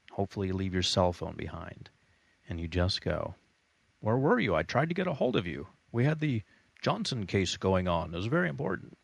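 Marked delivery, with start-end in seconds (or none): 4.0-9.0 higher, hurried mock office voice; mock nagging boss. A boss nagging the vacationer, hammed-up mock panic. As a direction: imitate a frantic boss on the phone.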